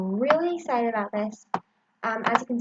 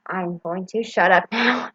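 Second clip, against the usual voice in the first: muffled, slow, louder through a mask; through a face mask; 6 dB louder, slower than usual. Real, not acted. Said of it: "my voice is very muffled under".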